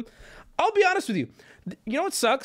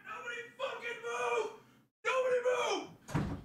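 distant shout; 14 semitones higher, 11 dB quieter than usual. Real, not acted. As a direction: shout it from across the house. Shouting from another room.

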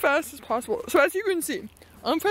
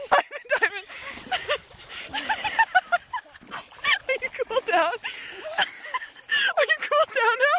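calling a pet; 12 semitones higher than usual. Real, not acted. Calling the dog.

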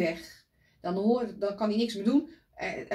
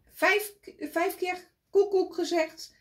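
high, slow and louder cuckoo imitation; drawn-out high cuckoo voice; cuckoo call; 10 semitones higher, 3 dB louder than usual. A narrator's reading. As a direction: sing out the cuckoo count slowly. Retelling the cuckoo calls.

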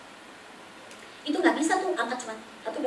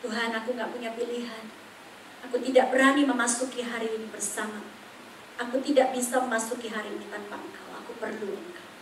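tearful prayer; 5 dB quieter than usual. Retold or imitated. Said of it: "aku nangis langsung".

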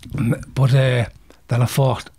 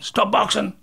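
higher-pitched referee call; referee's command; 8 semitones higher than usual. Retold or imitated. Referee jumping in to halt the bout, commanding.

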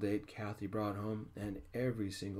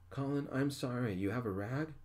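higher, louder call from inside; yelling; 6 semitones higher, 4 dB louder than usual. A narrator's reading. Ray yells to Colin from inside, higher and louder. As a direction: shout across the house for a rag. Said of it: "Ray yelled".

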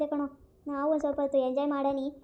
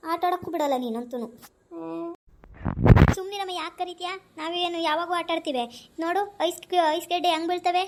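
put-on child voice; 3 semitones higher than usual. Child pleads to play in hail.

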